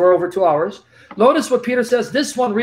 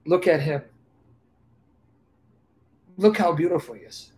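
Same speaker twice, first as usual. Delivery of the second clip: tender teacher; 4 semitones lower than usual. Retold or imitated. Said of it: "A teacher ... will say".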